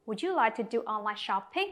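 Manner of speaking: Would you like to do online shopping? rising at the end; rising question. Shown as a demonstration. Teacher demonstrating a yes-no question, rising tune at the end. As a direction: lift the voice on shopping. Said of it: "lên giọng ở cuối câu hỏi".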